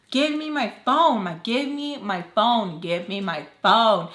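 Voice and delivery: slow, drawn-out mock yelling; insistent demand. Narrator pounding on door for her phone, insistent demand. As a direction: stretch each repeat of the demand.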